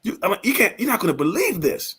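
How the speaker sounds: demonstrating an excited, disbelieving pitch. Shown as a demonstration. Partner sharing news with a prospect, excitedly. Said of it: "if you sound like this".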